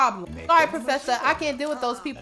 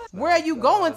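ordinary talk, nothing marked

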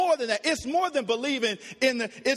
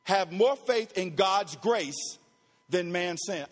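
slow emphatic repeat; 5 semitones lower, slower than usual. Real, not acted. Slow repeat of key point.

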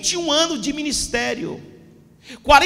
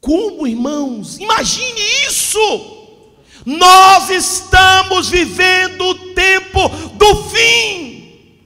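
preaching at full force; 3 semitones higher, 6 dB louder than usual. Acted. Pastor warning the church about Satan, preaching hard. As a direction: hammer each phrase home to the congregation.

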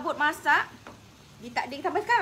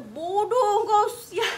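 higher, louder mock curse, half laughing; playing the gruff father's scolding; 8 semitones higher, 5 dB louder, much slower than usual. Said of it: "Dia maki saya waktu tu". (ayah memaki, separuh ketawa)

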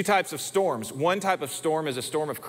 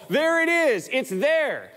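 put-on high, louder little girl pointing; child's alarmed call; 10 semitones higher, 4 dB louder, slower than usual. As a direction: play the frightened daughter, up high and loud. Daughter pointing at spider.

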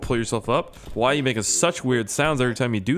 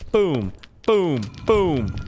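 excited; 6 semitones higher, 4 dB louder, much slower than usual. Real, not acted. Celebrating a win in game.

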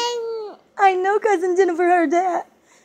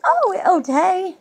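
excited; 3 dB louder than usual. Real, not acted. Excited at baby.

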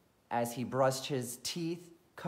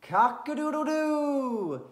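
high, loud, drawn-out rooster crow; loud rooster wake-up call; 8 dB louder than usual. Acted. Rooster call opens the story.

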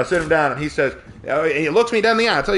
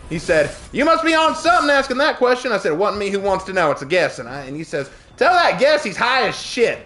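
high, hammed-up Southern back-and-forth; exaggerated Southern accent; 8 semitones higher, 3 dB louder than usual. Server and manager arguing over a vegan menu, exaggerated Southern. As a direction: play up the Southern twang, pitched high. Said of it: "I'll stop with my southern accent".

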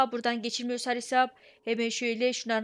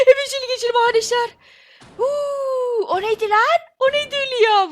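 higher, louder and rushed; breathless aftershock; 11 semitones higher, 9 dB louder than usual. Real, not acted. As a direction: blurt it still shaken up. After escaping the monster.

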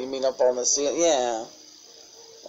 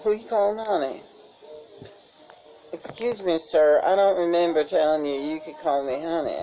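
mock offended; 3 semitones higher than usual. Mock offended at being called honey.

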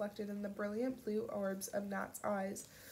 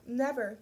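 "Never" hit hard and louder, falling at the end; emphatic never; 3 semitones higher, 6 dB louder than usual. Acted. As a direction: repeat "Never" with weight, final. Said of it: "Pip reiterated".

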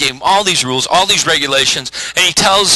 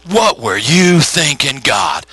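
reproachful; slower than usual. Acted. Repeats people's reproach of God.

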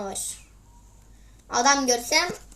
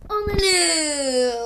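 angry shout; 2 semitones higher than usual. Real, not acted. Angry gamer dies in match.

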